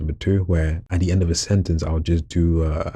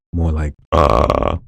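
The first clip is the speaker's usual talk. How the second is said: inhaled creepy noise; 4 dB louder, much slower than usual. Shown as a demonstration. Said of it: "breathing inwards while making a noise".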